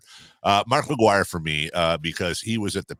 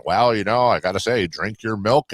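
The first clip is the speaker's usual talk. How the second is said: put-on old-timey voice; 3 semitones higher, 5 dB louder than usual. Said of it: "talk in that old-timey voice".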